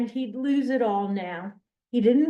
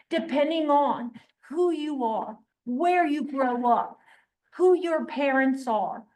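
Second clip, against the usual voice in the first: earnest paraphrase; 4 semitones higher than usual. Retold or imitated. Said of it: "what Nate is suggesting is".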